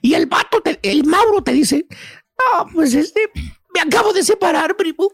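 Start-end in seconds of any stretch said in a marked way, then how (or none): 1.9-5.1 acted tearful confession, halting; mock a man choking up as he admits it; hammed-up, hesitant near-crying; voice breaking. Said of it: "Se le empieza a quebrar la voz".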